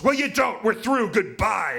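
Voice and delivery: woman dumping her man in the ward, high loud shout; breakup shout. Retold or imitated. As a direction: slam the door on him with your voice.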